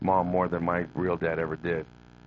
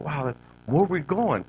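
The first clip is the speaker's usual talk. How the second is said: put-on child voice; 8 semitones higher than usual. Child self voiced in story.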